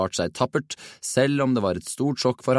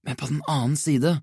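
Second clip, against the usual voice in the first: higher, playful lead-in; teasing; 6 semitones higher than usual. A narrator's reading. Nick starts needling his friends, teasing. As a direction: begin with a teasing smile. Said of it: "begynte han og smilte ertende".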